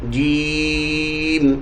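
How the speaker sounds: جیم stretched long with a held vowel; drawn-out letter name. Shown as a demonstration. Teacher modelling a Quranic letter for students, long drawn vowel. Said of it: "جیم کو جو ہے پڑھنے کا طریقہ".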